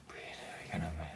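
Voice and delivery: hushed, breathy "breathe" to calm him; whispered calming. Retold or imitated. Friend whispering to calm her panicking passenger, hushed. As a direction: soothe him in a near whisper.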